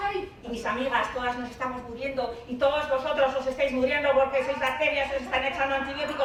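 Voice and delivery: hammed-up lament; dying bacterium. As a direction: wail to your fellow bacteria as you fake dying. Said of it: "yo voy y me muero".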